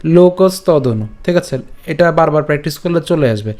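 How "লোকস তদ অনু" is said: slow but unbroken "লোকস তদ অনু"; joined up. Shown as a demonstration. Teacher repeats the joined option, run together. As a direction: say "লোকস তদ অনু" as one linked word. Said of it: "আমরা একসাথে উচ্চারণ করতে পারি".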